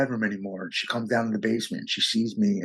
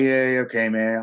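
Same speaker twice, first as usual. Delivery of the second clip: brushing him off; 2 semitones higher than usual. Retold or imitated. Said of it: "just kind of agreeing with him so I can hang up".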